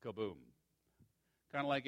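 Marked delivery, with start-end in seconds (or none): 0.0-0.4 mock boom. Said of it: "It was like that".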